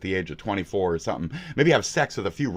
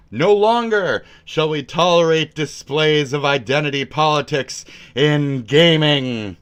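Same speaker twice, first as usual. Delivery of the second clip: mock manifesto; slower than usual. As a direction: declaim it like a grave manifesto.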